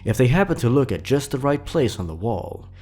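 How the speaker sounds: spooky story narration. A narrator's reading. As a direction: read it like a campfire horror tale, unhurried. Creepypasta read aloud.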